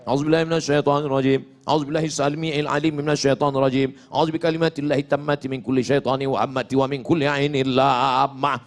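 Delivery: rattled off fast, from memory; quick-fire memorized recitation; rapid rote recitation. Shown as a demonstration. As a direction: race through it like a memorized drill. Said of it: "ngapal enggak?".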